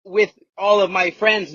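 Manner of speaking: a hint of a Finnish accent, slow and sing-song; understated Finnish accent, even tune. Shown as a demonstration. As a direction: lightly play a Finnish speaker. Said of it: "listen to the whole sentence".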